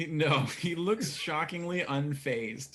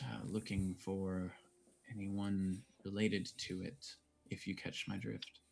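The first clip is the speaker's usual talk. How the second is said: low-key, much softer, slowing and pausing; confidential lean-in; 3 semitones lower, 5 dB quieter than usual. Acted. Bartender leans closer to warn Koros, hushed and confidential. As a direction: drop the volume for a discreet warning. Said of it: "leans in a little bit closer".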